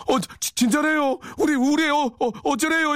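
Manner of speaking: put-on high, panicked Yanbian Korean accent. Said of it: "연변 말투가 막 튀어나오니까".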